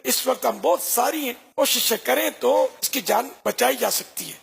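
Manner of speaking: gentle persuading. Acted. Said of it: "بڑی نرمی سے بولی".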